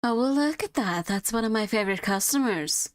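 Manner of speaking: a shopkeeper's friendly welcome in a light southern twang; a florist welcoming her favorite customer, light southern twang. Acted. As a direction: greet a regular with a hint of southern twang. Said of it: "slightly giving a southern twang to her".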